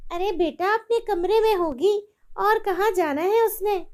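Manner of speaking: high, falsely sweet mother; wicked mother-in-law. Acted. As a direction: brush off the son. Mother-in-law lies to son.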